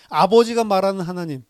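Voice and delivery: ordinary talk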